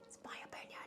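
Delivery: hushed, voiceless aside; whispered. Acted. Vlogger introducing a controversial tier, whispered disclaimer. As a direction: whisper it as a confidential reminder.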